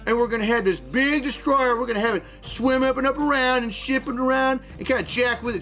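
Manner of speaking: a sneaky sailor voiced with a mild Chinese accent; a hint of a Chinese accent, boastful and scheming; comedic Chinese voice. Holds comedic Chinese character voice.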